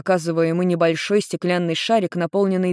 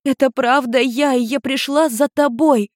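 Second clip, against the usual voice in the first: put-on higher young girl's voice, eager; lightly voiced daughter telling her story; teen girl explaining; 8 semitones higher than usual.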